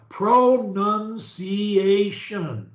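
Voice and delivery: PRONUNCIATION very slowly, every syllable drawn out. Shown as a demonstration. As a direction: model PRONUNCIATION syllable by syllable for a learner. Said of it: "say it slower".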